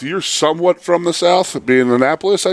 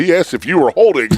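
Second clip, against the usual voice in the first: coach yelling; 2 semitones higher than usual. Retold or imitated. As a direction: bark it like an angry old coach. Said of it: "the old man yelling at me".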